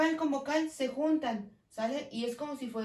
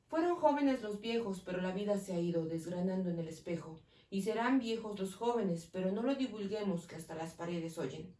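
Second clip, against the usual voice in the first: poem reading; 3 semitones lower than usual. Shown as a demonstration. Teacher reading a poem aloud to the class. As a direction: recite the poem evenly. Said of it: "Vamos a leer este poema".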